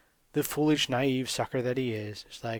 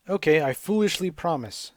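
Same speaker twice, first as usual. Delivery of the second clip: a lightly voiced, louder naive boy; naive Nemo; 4 semitones higher, 6 dB louder than usual. Nemo agreeing to the princess, lightly voiced. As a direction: promise like a gullible kid. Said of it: "says Nemo".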